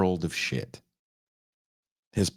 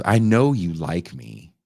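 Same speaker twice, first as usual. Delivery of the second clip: smug come-on; 4 dB louder, slower than usual. Retold or imitated. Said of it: "he goes".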